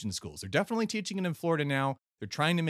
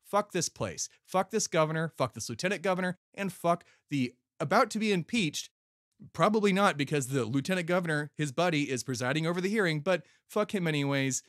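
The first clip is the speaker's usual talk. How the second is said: angry; 3 semitones higher than usual. Real, not acted. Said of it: "I'm angry".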